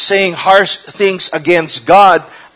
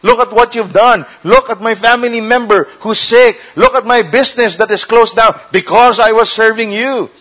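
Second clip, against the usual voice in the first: higher-pitched lament to God; accusing complaint; 5 semitones higher than usual. Acted. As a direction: pile up grievances, acting the wronged believer. Believer bitterly complaining to God.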